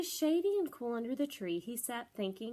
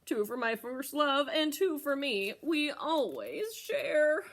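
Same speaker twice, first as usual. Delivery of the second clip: slow, drooling goat, higher and louder; hammed-up greedy goat; Mister Goat voice; 4 semitones higher, 5 dB louder, slower than usual. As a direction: savor every word like drooling. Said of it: "Mister Goat drooled".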